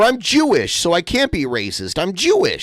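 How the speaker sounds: high mocking take on an entitled woman; mocking impression. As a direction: parody her as whiny and self-righteous. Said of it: "She does the, like".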